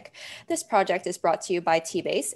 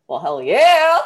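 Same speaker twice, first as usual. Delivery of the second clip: emphatic; 4 semitones higher, 10 dB louder, slower than usual. Real, not acted. Emphatic boast.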